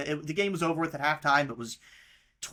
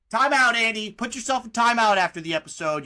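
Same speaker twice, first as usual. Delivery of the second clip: mock scolding; 4 semitones higher, 6 dB louder than usual. Real, not acted. Scolding cohost for Florida mention.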